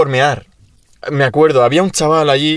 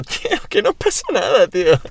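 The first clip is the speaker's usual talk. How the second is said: very high, retold squeaky-pitched reassurance; giggly carefree protest; 9 semitones higher than usual. Laughing offender reassures serious friends, retold high carefree protest. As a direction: brush it off in a high mock voice. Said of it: "yo me estaba riendo".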